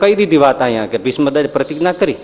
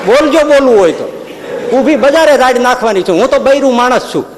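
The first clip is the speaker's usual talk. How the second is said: high, loud daring challenge to the Lord; defiant woman; 8 semitones higher, 4 dB louder than usual. Acted. Woman daring Maharaj to complain, high and loud defiance. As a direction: dare him to shout it, higher and louder.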